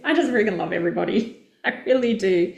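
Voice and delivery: fast words spilling out through laughter; giggling, gushing fondness; laughing gush. Real, not acted. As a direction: laugh while you say it.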